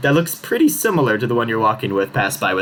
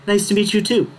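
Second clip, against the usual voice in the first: kenku voice; 10 semitones higher than usual. Acted. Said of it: "you sort of hear".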